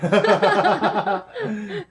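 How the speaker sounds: loud, high-pitched laughing fit; burst of laughter. Real, not acted. Laughing at a panelist's excuse for staying silent, loud laughter.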